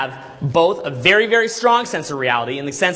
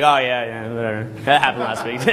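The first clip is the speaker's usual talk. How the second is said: bored veteran; 5 semitones lower than usual. Retold or imitated. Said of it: "you're like".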